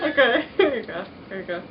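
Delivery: mumbled through stuffed cheeks; cheeks stuffed full. Real, not acted. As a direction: mouth crammed with marshmallows. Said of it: "Move them into your cheek pockets".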